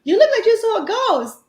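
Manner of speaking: teasing laugh. Retold or imitated. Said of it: "she starts laughing".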